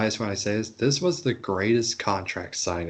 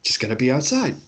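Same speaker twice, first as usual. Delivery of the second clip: mock casual boss. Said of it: "being like".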